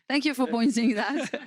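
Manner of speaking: laughing through the thanks, rising end. Real, not acted. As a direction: thank them while chuckling. Laughing at accent remark.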